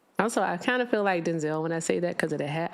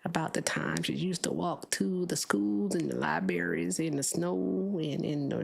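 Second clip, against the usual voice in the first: put-on old man voice; 4 dB quieter than usual. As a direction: play a tired grandpa telling stories. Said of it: "like, an old man voice, and you talk like this".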